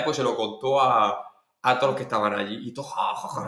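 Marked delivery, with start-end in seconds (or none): 2.9-3.5 breathy mock guffawing; quick, higher imitation of laughing onlookers; imitated group laughter. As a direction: act out everyone laughing. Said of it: "riéndose".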